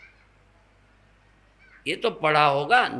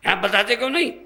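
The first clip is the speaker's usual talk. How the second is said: mildly annoyed, higher-pitched question; retold annoyance; 5 semitones higher, much faster than usual. Caller pressing the swami for his name, mildly annoyed. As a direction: imitate an impatient caller demanding an answer. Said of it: "हमने गुस्सा होके बोला".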